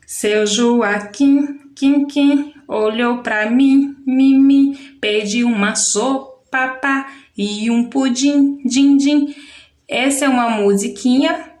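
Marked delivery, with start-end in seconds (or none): 0.1-9.4 put-on slow chanted children's rhyme, echoes punched; sing-song lenga-lenga with bouncing echo syllables; rhyme reading. Shown as a demonstration. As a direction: recite it rhythmically, lifting each repeated syllable. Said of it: "você vai fazer a leitura".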